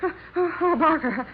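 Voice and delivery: gasping, frightened waking; jolted awake and scared; startled awake, catching her breath. Acted.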